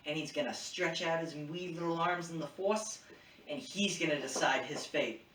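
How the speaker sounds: badly faked Boston accent; terrible Boston accent. Ahsoka telling him where to take the child, in a bad Boston accent. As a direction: explain the plan in a poor Boston accent. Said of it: "That was a terrible Boston accent".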